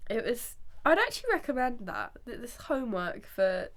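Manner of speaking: congested, stuffy voice; talking through a blocked nose. Real, not acted. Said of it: "I'm still quite congested".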